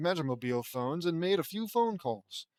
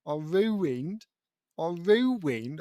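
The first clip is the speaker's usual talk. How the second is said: attempted British accent, drawn-out vowels; hammy try at British speech; slower than usual. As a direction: put on an amateur British accent. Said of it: "Uh, British accent".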